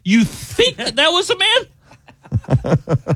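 high, slow, laughing mock outrage; outraged disbelief. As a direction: stretch it out in squealing disbelief. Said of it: "her outraged reply".

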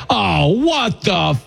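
drawn-out stunned reaction; mock shocked audience. Audience reacting to an insulting joke, mock shocked. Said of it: "react to it like".

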